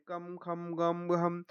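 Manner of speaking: कम, खम, गम, हम chanted evenly, each closing on a hummed m; pronunciation demonstration. Shown as a demonstration. Teacher showing the dot's sound, even syllable-by-syllable recitation. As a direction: recite कम, खम, गम, हम with a held final m. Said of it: "बस उच्चारण के लिए लेते हैं".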